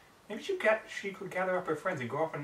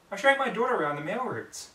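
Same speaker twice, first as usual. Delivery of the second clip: higher, goofy pony voice; Derpy voice; 8 semitones higher, 4 dB louder than usual. Acted. Derpy explaining to Twilight, higher voice. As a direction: chirp it lightly.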